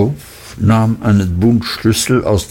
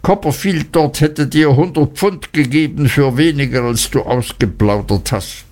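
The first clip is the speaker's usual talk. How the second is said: angry; 4 semitones higher than usual. Acted. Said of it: "rief Uriah wütend".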